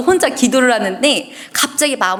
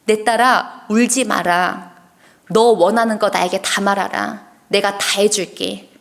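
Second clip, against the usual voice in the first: low and gentle; 2 semitones lower, slower than usual. Retold or imitated. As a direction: speak slowly like a loving father calming a child. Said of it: "아주 나직하게 저에게 말씀해주기". (나직하고 다정하게 천천히)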